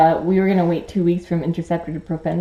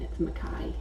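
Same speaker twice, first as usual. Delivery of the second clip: Australian Mackay; 7 semitones lower, 10 dB quieter than usual. Shown as a demonstration. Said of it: "But in Australian".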